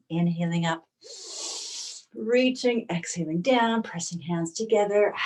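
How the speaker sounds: unhurried yoga teacher, long pauses between phrases; spacious, breath-led instruction; guided yoga meditation. Real, not acted. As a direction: guide them gently into breath and stretch. Leads yoga breathing practice.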